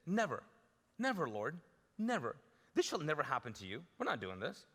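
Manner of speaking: firm pleading refusal; Peter's rebuke. Retold or imitated. Peter refusing Jesus's path, insistent rebuke. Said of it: "he rebuked him".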